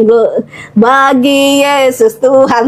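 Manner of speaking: slow, drawn-out teasing chant; slow mocking sing-song to tease mother. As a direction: tease her slowly and playfully, half singing. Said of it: "saya, saya ledekin".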